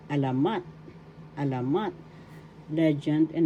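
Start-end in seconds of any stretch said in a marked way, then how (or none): 0.1-1.9 alamat with the accent on final MAT; teacher's model of alamat, stressed MAT; stress on third syllable. Shown as a demonstration. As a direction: land on mat at the end of alamat. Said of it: "The accent is in the third syllable".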